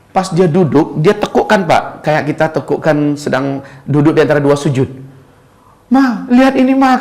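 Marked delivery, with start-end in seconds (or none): 5.9-7.0 high-pitched excited call to the wife; imitated amazed husband. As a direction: call her to look, pitched well up. Pasien takjub memanggil istrinya. (menirukan suami takjub, suara meninggi)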